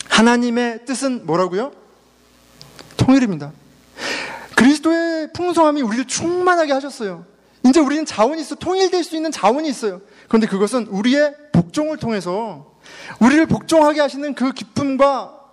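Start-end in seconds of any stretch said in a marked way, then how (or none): 4.6-15.4 high, ringing pulpit delivery; fervent preaching. Real, not acted. Pastor urging congregation toward unity, fervent and high-pitched. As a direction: preach it with rising conviction.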